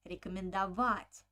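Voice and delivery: рекомендовать stressed on ВА; accent late in рекомендовать, on -вать; stressed suffix -ова-. Shown as a demonstration. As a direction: land on the ВА of рекомендовать. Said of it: "So over has an accent".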